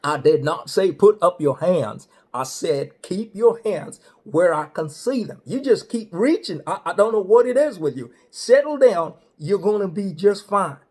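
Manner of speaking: hammed-up highway patrolman; state trooper voice. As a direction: play the big-voiced cop laying down the law. Trooper scolds the raised hands.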